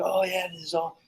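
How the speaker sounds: hammed-up fake panic, rattled off; winding her up. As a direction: pretend a kitchen disaster to tease someone. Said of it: "I was just getting her going".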